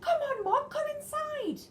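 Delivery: high loud coaxing call. Acted. Nicky calls Mog to come in out of the rain. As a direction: coax the cat in from afar.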